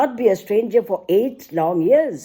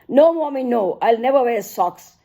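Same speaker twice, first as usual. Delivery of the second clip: higher, mildly mocking little girl's refusal; strident toddler mocking; 4 semitones higher than usual. Toddler mocks her mother refusing socks, strident mock voice. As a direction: tease like a defiant three-year-old, lightly. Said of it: "In strident tones she mocks".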